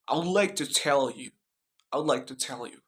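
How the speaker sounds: American accent with a clear T in "tell". Shown as a demonstration. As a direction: demonstrate an American accent, crisp T. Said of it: "The example in American accent".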